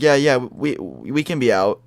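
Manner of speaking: stammered, halting agreement; scared stuttering. Retold or imitated. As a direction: imitate friends nervously tripping over their words. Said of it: "he's, like, stuttering".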